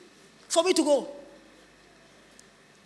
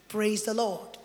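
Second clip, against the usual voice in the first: low, put-on pious tone; pompous holy voice; 6 semitones lower, 8 dB quieter, slower than usual. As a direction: sound spiritually superior. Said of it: "very spiritually pompous".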